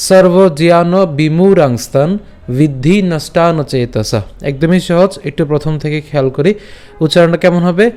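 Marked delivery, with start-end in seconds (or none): 0.1-4.2 slow, measured Sanskrit verse recitation; শ্লোক recitation. Shown as a demonstration. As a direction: recite each quarter slowly, drawing out long vowels. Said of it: "আজকের শ্লোকটি হলো". (ধীরে টেনে টেনে শ্লোক পাঠ)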